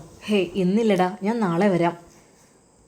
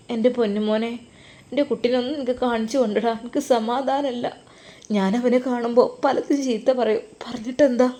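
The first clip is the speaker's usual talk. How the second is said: crying mother; 2 semitones higher than usual. Acted. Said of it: "ഉമ്മ, നിങ്ങൾ കരയല്ലേ?".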